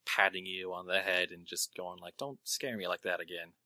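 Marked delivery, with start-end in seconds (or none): 2.2-3.5 soft, lower-pitched gentle reproach; subdued acted plea; calmed-down scolding. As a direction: say it quietly, calmed after a fright. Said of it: "eventually calms down".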